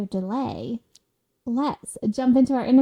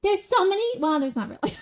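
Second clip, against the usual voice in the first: bougie chick; 5 semitones higher than usual. Pretend. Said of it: "Bougie chick, you know?".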